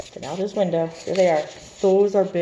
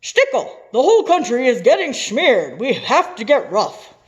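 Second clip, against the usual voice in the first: much higher, louder pleading president; urgent president; 8 semitones higher, 9 dB louder than usual. Acted. President urging Stickel to get rough, high urgent plea. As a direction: press him hard, the country's in trouble.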